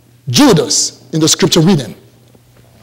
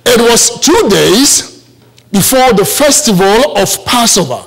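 put-on African accent. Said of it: "in my beautiful African accent".

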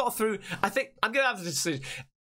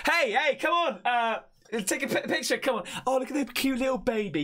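higher, lightly acted coaxing voice; imitating camera person; 4 semitones higher than usual. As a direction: call someone over for a baby picture. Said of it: "must have been the camera ma-, man, woman".

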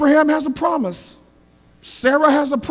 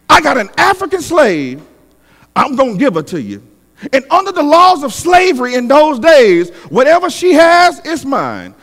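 acted insistent Sarah; 3 semitones higher, 5 dB louder than usual. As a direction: lay down the law as Sarah. Voicing Sarah laying down terms.

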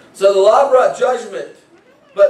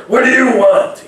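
mock angry demand, a little higher and louder; angry God voice; 4 semitones higher, 4 dB louder than usual. Preacher imitating a harsh God to the sinner, mock angry. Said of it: "with a loud, angry voice".

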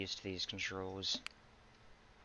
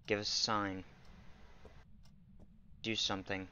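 talking to a ghost. Real, not acted. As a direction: call out into the empty room. Calling out to ghost.

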